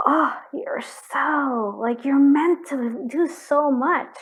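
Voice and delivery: slow, choked-up awe; moved almost to tears, drawing words out; getting emotional. Real, not acted. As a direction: overcome with feeling, slow and tearful. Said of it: "I'm getting emotional".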